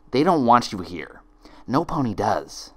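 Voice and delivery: a hint of a harsh double; lightly voiced stern twin. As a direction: condemn her coldly. Twin condemning.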